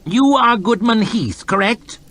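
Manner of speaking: high, disdainful lordly voice; a bored, arrogant official; haughty lord. Acted. Lord chamberlain announcing to his court, disdainful. Hoff questions the peasant.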